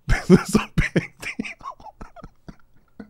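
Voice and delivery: very high, slow falsetto mockery; high drawn-out sarcastic squeal; mocking falsetto. Shown as a demonstration. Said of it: "repeat mocking".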